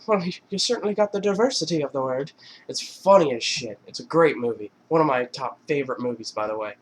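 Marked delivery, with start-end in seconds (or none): 0.1-2.3 dry wisecrack. Retold or imitated. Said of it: "Sean Patrick Flanery was like".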